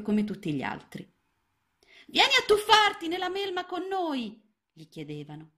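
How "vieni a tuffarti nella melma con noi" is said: very high, small frog voices; frog friends inviting. A narrator's reading. Frog friends calling Ranuncolo to dive in, high and playful. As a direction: call him playfully into the mud.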